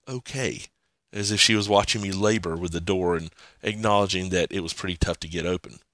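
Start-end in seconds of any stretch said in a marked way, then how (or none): 0.1-0.7 hushed, airy okay; spirit whisper. Retold or imitated. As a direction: let it fade like a faint spirit. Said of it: "a female spirit whisper".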